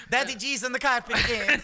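dog voice. Retold or imitated. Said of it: "I'm gonna let James do his voice".

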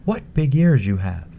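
put-on bright, high young girl; a sweet, polite little girl. Girl at the bed.

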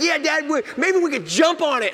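put-on a young son dreaming about jumping on a bear; little boy voice. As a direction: bounce with kid excitement.

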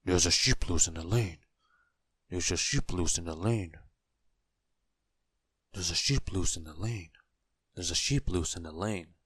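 same lilting tune each time; methodical, sing-song self-reminder; repeating by rote. A narrator's reading. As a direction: chant it over to memorize it. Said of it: "repeated the message over and over to himself".

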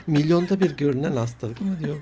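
words through laughter; laughing while talking. Real, not acted. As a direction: keep laughing as you speak. Telling joke while laughing.

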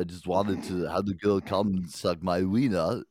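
halting, loosely attempted celebrity impression; rough impression that misses the mark; Christopher Walken. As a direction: have a half-successful go at the actor's voice. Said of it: "your best Christopher Walken".

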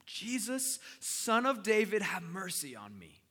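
high call that swells loud, then falls away; crying out. Acted. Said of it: "he cries out one more time".

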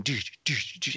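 soft "doo, doo" club beat; imitated club music. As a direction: mimic thumping music under your breath. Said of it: "with music going".

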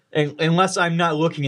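normal talking voice

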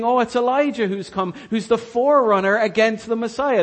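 crowd's guess. Acted. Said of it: "But they're thinking".

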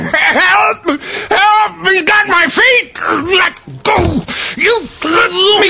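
desperate, tearful cries for help; panicked crying for help. Acted. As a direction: scream for help as he's dragged. Man dragged away by invisible attacker.

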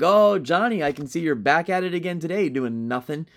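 mock teacher sarcasm, punchy start; lightly voiced sarcastic teacher; sarcastic remark. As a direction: imitate a sarcastic teacher jab. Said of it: "sometimes I'll make a sarcastic remark like".

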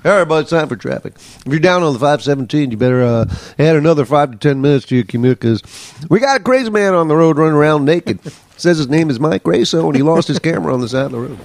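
lightly voiced country traffic reporter; easygoing mock country accent. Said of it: "Like country?".

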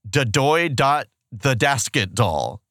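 ventriloquist voice, "Da doy dot the dasket doll" with every B said as D; slow, lips still, "dasket doll" with D for B. Retold or imitated. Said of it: "Doug says the phrase".

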